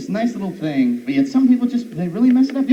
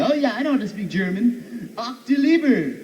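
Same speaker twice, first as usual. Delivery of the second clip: a hint of fake German; faking German with a thick accent; mock German accent; 6 semitones higher than usual. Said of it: "people trying to mess with you".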